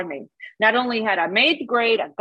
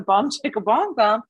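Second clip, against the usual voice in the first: imitated strip club music; slower than usual. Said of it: "I hear this music and it was like going".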